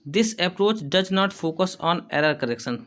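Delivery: slow, careful dictation pace, said twice; teacher dictating notes. Shown as a demonstration. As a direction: read it slowly so students can write. Teacher dictating an English point.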